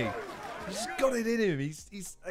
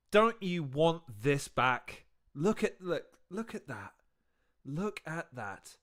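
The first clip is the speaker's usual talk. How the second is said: slow, hushed and low; wistful yearning; 6 semitones lower, 5 dB quieter, slower than usual. Acted. Reactor longing for the old crowds, wistful and hushed. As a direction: sigh it out softly, aching for lost days.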